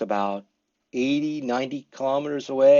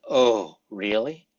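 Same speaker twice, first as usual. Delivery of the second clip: polite surprise; 2 semitones lower, slower than usual. Shown as a demonstration. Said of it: "you should use".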